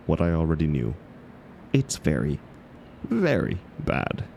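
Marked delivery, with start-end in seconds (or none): 3.0-4.2 very bad pulled out slow and high; stretched emphasis. Giving the club her verdict on the book, with slow high emphasis. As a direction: lean hard on very bad, slowly, way up in pitch.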